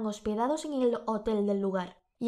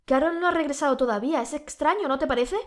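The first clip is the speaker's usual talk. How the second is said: loud, higher call up to a balcony; husband shouting up to his wife on the balcony; 6 semitones higher, 6 dB louder than usual. Acted. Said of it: "gritando a su esposa".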